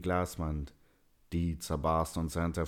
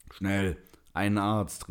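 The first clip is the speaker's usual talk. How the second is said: slow, drawn-out call for help; urgent call; 3 semitones higher, 4 dB louder, slower than usual. A narrator's reading. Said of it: "rief er".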